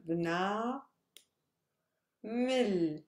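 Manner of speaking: "Bna" held long, a clear pause, then "Mil"; teacher sounding out "Bna... Mil" by syllable; separated syllables. Shown as a demonstration. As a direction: split the word into "Bna" and "Mil". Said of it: "that's the first syllable".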